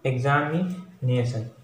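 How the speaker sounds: एग्जामिनेशन said slowly, syllable by syllable; teacher spelling out एग्जामिनेशन by its syllables; slow syllable demo. Shown as a demonstration. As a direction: stretch out एग्जामिनेशन, each syllable separate. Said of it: "तो यहाँ पर देखिए".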